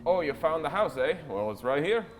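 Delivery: a lightly voiced chummy merchant; friendly nosy trader; a hint of a gossipy merchant.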